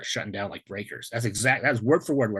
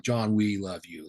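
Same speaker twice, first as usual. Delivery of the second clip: tender, slow; 2 semitones lower, slower than usual. Retold or imitated. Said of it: "it was more like".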